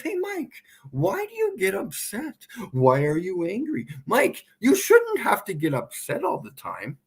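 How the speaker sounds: lightly voiced scolding critic; mocking critic. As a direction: mimic a nagging critic.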